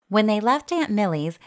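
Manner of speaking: plain reading voice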